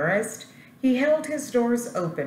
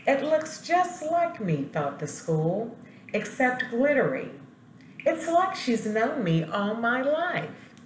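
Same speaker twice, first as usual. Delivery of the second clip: high, thrilled voice; delighted; 7 semitones higher than usual. Acted. School admiring the girl's glittery picture, high and delighted. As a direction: gush with delight, pitched way up.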